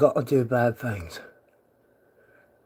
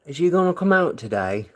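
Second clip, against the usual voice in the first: put-on British accent. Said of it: "Is it the British voice".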